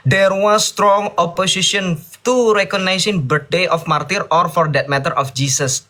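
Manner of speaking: a deliberate, slowed-down reading lesson; slow careful reading. Shown as a demonstration. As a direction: read it out slowly, word by word. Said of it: "kamu pelan-pelan bacanya".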